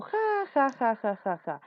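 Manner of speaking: spoken "ha ha" starting high, descending; mock laugh. Shown as a demonstration. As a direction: fake a laugh for the example. Acted laugh in quoted example. (risa fingida, aguda al inicio)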